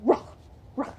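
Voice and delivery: short gruff ruh barks; dog bark demo. Shown as a demonstration. Showing the bark sound to practise. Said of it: "to make that sound, you're going".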